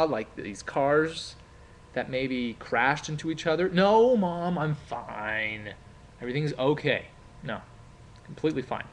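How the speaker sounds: calm mom down, it's nothing; reassuring mom on the phone, stretching the truth. Shown as a demonstration. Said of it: "consoling in a way. I had to reassure my mom".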